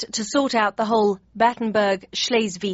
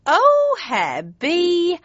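high squealing giggle, much louder; giggling; 10 semitones higher, 5 dB louder, much slower than usual. A narrator's reading. Mum giggles at Bismarck's joke, high squeal. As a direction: shriek with delight at his joke. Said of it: "giggling and slapping him".

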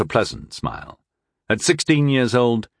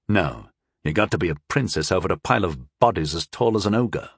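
inner thought; 4 semitones lower, faster than usual. Acted. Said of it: "I thought".

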